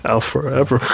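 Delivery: trying out the quote. Shown as a demonstration. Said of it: "I'll forever quote that line".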